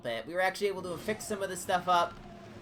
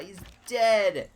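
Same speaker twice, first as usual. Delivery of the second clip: triumphant shout; 6 semitones higher, 7 dB louder, much slower than usual. Real, not acted. Enemy unit killed, gloating.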